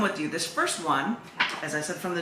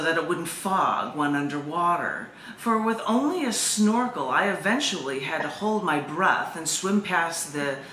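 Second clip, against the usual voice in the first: calm, measured poem reading. Acted. Poet reading her shark poem to the group, unhurried.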